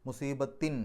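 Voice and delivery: മുസീബത്തിൻ ending in a distinctly sounded n; clear final n. Shown as a demonstration. Teacher demonstrates a clear n for the class. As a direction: let the n of മുസീബത്തിൻ ring out. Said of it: "എൻ എന്നുള്ള ശബ്ദം പുറത്തേക്ക് കേൾക്കണം".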